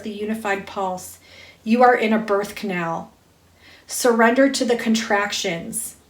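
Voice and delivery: spiritual card reading. Acted. Reader to listeners awakening them to love, intoned spiritual reading. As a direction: read it as a measured invocation.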